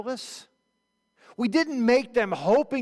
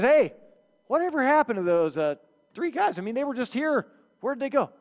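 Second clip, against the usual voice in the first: casual question; 5 semitones higher than usual. Retold or imitated. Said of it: "As David says".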